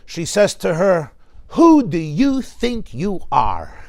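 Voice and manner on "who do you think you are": slow, haughty British accent, hammed up; grouchy mother in drawn-out British English. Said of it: "eloquent British English, which I'm not British".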